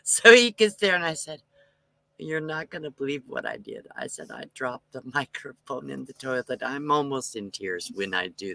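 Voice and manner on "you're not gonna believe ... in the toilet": mock confession. Confessing to microphone guy.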